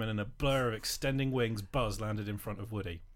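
lively comic read-aloud; storyteller performing a saucy parody; story narration. A narrator's reading. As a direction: read the naughty tale with relish.

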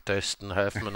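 "Dustin Hoffman" with rounded ö in DUS and HOFF, said softly; low, quiet "Dustin Hoffman" as Döstin Höffmen; corrected pronunciation. Shown as a demonstration. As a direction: say "Dustin Hoffman" with exaggerated ö vowels. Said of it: "der richtige Aussprache".

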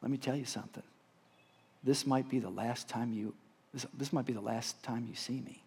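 a touch of emotion, understated; mildly choked up. Retold or imitated. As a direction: say it quietly, holding feeling back. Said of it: "I was choked up".

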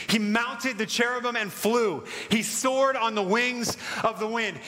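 dramatic Bible reading, climbing in pitch; building scripture reading. Acted. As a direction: build the reading steadily, phrase by phrase. Psalm reading builds in intensity.

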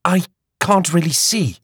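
Hattie's voice. A narrator's reading. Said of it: "Hattie said".

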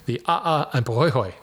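pohoihoi said with full Hawaiian vowels; Hawaiian pronunciation. Shown as a demonstration. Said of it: "my Hawaiian pronunciation there".

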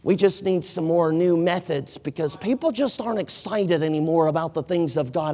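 lightly mocked church complaint; mock complaining. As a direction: sneer at the lazy excuse. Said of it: "we sit back and wonder".

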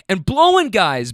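imitating a friend's eager interjection; blurted out. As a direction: jump in with it, slightly lifted. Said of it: "blurts out friend one".

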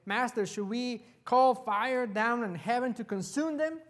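eager disciples asking to call down fire; righteous indignation. Retold or imitated. Disciples ask Jesus to punish the village, mildly indignant. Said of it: "full of righteous indignation".

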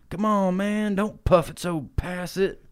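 high goofy character voice, slow; high-pitched stoner creature voice; Grimace voice. Retold or imitated. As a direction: squeak it out like a stoned cartoon creature. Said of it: "Grimace is like".

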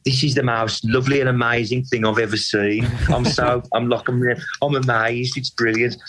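playful Brummie impression, mildly gushing; mock Brummie accent. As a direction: lightly send up a gushing Brummie footballer. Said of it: "in his Brummy accent".

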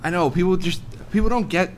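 a hint of a misunderstood ogre pleading; lightly voiced ogre. Ogre confiding that they have feelings too, mildly plaintive.

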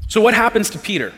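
preacher's rising call. Real, not acted. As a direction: call the question out to the room. Preacher repeats question for emphasis.

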